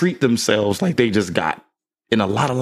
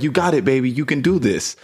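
gentle encouragement; 6 semitones higher than usual. Retold or imitated. Father coaxing his daughter through reading, gently encouraging. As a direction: cheer her on gently. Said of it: "You're screaming".

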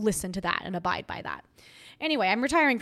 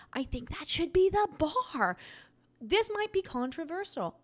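laughing; 9 semitones higher than usual. Real, not acted. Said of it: "clearly laughing too much".

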